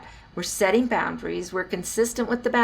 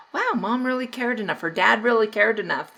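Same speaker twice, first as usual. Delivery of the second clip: put-on higher-pitched admiring kid; a touch of wonder, voiced higher; impressed child; 4 semitones higher than usual. Child noticing a parent who stopped, lightly impressed. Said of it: "they're gonna say".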